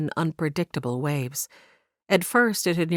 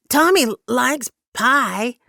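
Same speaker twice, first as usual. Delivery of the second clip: put-on childlike Tom Tom; 7 semitones higher, 5 dB louder, slower than usual. Simple-minded Tom Tom speaks.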